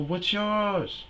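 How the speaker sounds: squeaky nervous self. Retold or imitated. Himself quoted, high.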